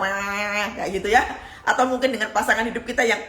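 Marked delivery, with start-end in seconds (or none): 0.0-0.7 drawn-out "waah" imitating coarse yelling; bleated nonsense rant; mock rough ranting. Preacher imitating debt collector at the door, mock rough rant. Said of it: "ngomongnya kasar".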